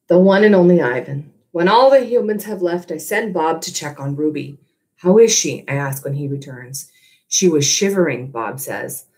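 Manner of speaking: steady storytelling read to a class; story narration. A narrator's reading. Teacher reading the novel aloud to her class, gentle storytelling. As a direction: read it like a chapter to students.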